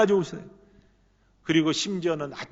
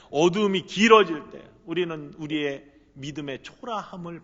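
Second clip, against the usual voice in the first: louder rising sermon cadence; preaching at full force; 2 semitones higher, 7 dB louder than usual. Acted. Pastor to congregation, preaching with mounting force. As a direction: build the preaching toward a peak.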